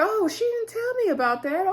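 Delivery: very high, pointed imitation; mock surprise. Retold mother learning she wasn't told.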